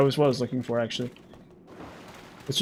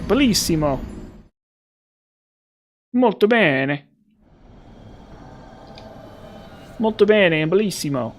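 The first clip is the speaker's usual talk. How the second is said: Patches impression; 4 semitones higher than usual. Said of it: "that's what he says".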